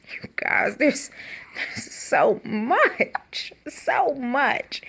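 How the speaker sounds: sighing whisper; weary whisper. Real, not acted. Whispered sigh to viewers about too much drama. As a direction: whisper it, overwhelmed. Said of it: "sighs, whispering to viewers".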